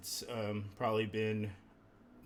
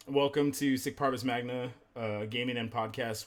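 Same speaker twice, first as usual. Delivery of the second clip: podcast intro; 3 dB louder than usual. Acted. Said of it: "having to re-say this".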